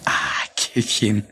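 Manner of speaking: sly whisper. Acted. Villain mocks the witch's answer.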